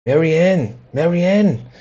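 roept luid en hoog naar boven; calling out. A narrator's reading. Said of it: "said the voice".

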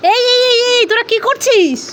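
high-pitched scolding call. Real, not acted. Parent catching two children at the lollipops, scolding. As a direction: call out sharply to stop mischief.

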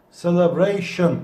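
"Celebration" with the weight on "-bra-"; cele-BRA-tion, punch the BRA; stress on the second to last syllable. Shown as a demonstration. Teacher drilling the class, stress on BRA. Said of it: "sondan bir önceki arkadaşlar R'nin üzerinde".

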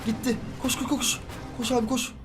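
soft, tense hurrying under the breath; willing the timer to run out quietly; hushed urging. Real, not acted. Player urges his respawn and teammate on, softly and tensely.

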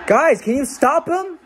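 yelling at the TV; desperate shout. Real, not acted. Shouting at team on TV.

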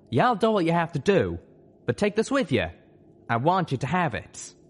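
high-voiced, heartfelt urging; Calamity, earnest friend. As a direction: press a parting gift on a friend, voice pitched high. Voices Calamity offering a gift.

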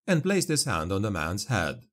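usual speaking voice

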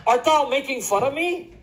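upset. Acted. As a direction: play a man offended at being teased. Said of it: "now the man gets upset".

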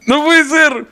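can't believe it, say it over and over; stunned disbelief. Real, not acted. Repeating disbelief at the news.

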